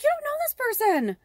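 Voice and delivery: real tears breaking through. Real, not acted. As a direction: choke up on the words. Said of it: "starting to get emotional about it".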